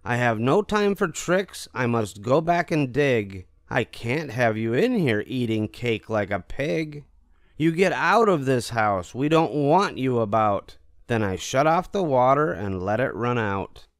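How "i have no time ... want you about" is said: higher, slightly raised scolding voice; mad child. A narrator's reading. Narrator ordering the cat out of the house, cross and higher. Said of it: "I said".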